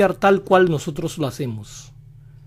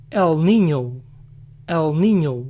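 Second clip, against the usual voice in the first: American accent; slower than usual. Shown as a demonstration. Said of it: "lo pronuncian con la ñ, aunque a su estilo".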